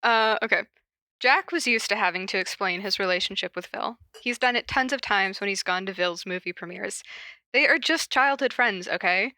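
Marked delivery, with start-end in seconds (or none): 1.2-9.3 calm read-aloud narration; measured fanfic narration; story reading. Acted. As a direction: read the fic to the listeners.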